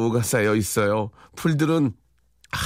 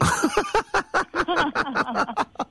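high burst of laughter. Real, not acted. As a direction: crack up laughing.

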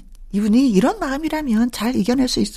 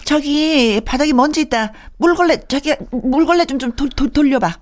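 high-pitched, fussy household orders; acted nagging wife; 5 semitones higher than usual. Wife pestering husband over dust, fussy nagging. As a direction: nag like a clean-freak wife. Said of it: "아내가 주변 사람들을 가만히 두겠어요?".

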